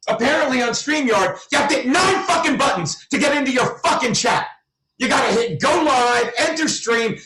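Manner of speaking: real furious rant; angry rant. Real, not acted. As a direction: yell out the frustration at the app. Ranting about the stream setup.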